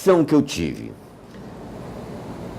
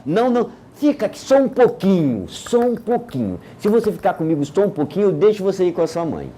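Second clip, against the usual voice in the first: gentle coaxing; 3 semitones higher than usual. Retold or imitated. Teacher coaxing boy to stay.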